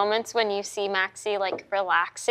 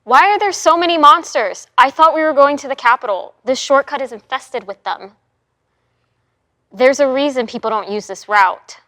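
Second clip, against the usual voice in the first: exasperated knight; 8 dB louder than usual. Acted. Knight complaining on the road.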